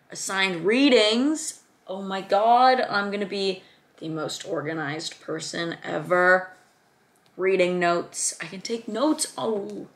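gushing, with loud drawn-out bursts; over-the-top thrilled reactions; going crazy excited. Real, not acted. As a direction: get carried away with delight. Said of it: "way crazier than I should".

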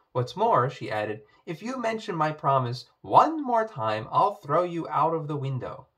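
loud angry warning; furious threat. Acted. Poppy furious at frog.

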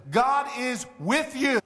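slow, emphatic on with. Shown as a demonstration. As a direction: lay it down slowly. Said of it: "the greatest promise".

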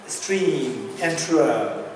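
stream enterer said very slowly, word by word; slow and deliberate. Shown as a demonstration. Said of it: "Let me say this again".

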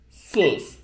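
"sus" held evenly, then stop; one-beat rest. Shown as a demonstration. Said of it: "bir tık da geliyor".

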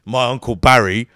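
loud imitation of a white lad; white boy fan. White fan telling the comic about his uncle, loud imitation. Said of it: "White boys, same shit".

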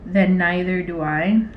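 slow, halting dictation; typing aloud. Real, not acted. Replying to his text, slow dictation. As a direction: say each chunk as you type it.

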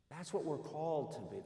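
preacher echoing his point softly to the congregation. Real, not acted. Preacher repeats line for emphasis.

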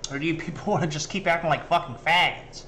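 rushed, laughing mock rant; mocking imitation. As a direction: parody the rapper's pep talk, half laughing. Mocks the clip guy's speech.

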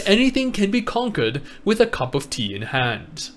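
put-on storyteller reading with a British accent. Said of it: "sound like I had a British accent".

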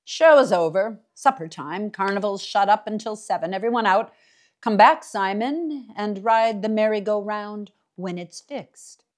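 loud barker clearing the crowd; calling out. Acted. Mister Dark sending the townspeople home, calling out loud. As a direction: boom it out across the midway.

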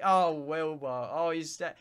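slow, drawn-out mock soothing; lightly acted attempt to reassure; retold reassurance. Streamer imitating himself trying to calm Wilbur, mock reassuring. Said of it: "reassure him".

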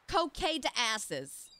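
"Coquet de Asses" said slowly, coke-ay deh asses; slow, mangled French reading; butchered French. Shown as a demonstration. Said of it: "I know I'm butchering that".

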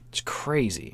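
hushed aside; whispering. Real, not acted. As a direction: whisper it in disbelief. Aside about the woman.

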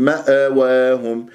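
مأواهم with an extra vowel after the hamza; echoed hamza. Shown as a demonstration. Teacher shows mistake to avoid, bouncing hamza in مأواهم. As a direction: bounce the stop as "ma'a-wahum". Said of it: "حتى لا تقول".

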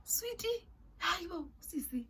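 high, whiny pleading refusal; mock-pleading high whine. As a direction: beg her to stop in a high voice.

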